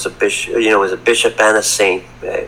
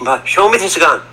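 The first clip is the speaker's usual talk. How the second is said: higher-pitched mock demand; retold challenge, pitched up; demanding mother; 6 semitones higher than usual. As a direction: imitate a mother insisting on proof. Voicing mother repeating her demand.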